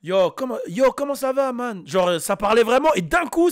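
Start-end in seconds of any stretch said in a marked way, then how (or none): 0.0-1.9 casual Canadian French greeting; Canadian French dub accent. Acted. Dubbed film character says hello in a Canadian French accent. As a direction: mimic Canadian dubbing, anglicised slang. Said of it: "en mode canadien".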